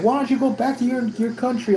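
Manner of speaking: high mocking racist voice; mock the racist guy's taunt. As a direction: sneer it high like the bigot. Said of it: "he starts going and it's like".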